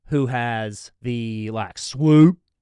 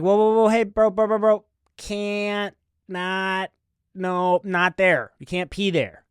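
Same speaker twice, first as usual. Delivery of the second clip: raised, urgent warning, much higher and louder; alarmed shout; 6 semitones higher, 4 dB louder than usual. Retold or imitated. Narrator yelling at a drunk fan by a tree, alarmed shout. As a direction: call out fast to stop him before he pees. Stopping a stranger peeing publicly.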